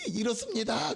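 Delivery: showing lost voice. Shown as a demonstration. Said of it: "목소리가 거의 안 나왔어요".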